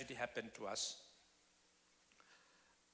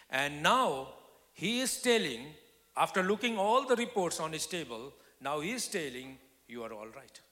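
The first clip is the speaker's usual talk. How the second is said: louder and higher, building to a far-off exclaim; rising excitement; 5 semitones higher, 7 dB louder than usual. Real, not acted. Preacher testifying the doctor found her well, excited. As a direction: testify with mounting wonder. Doctor's surprising good report.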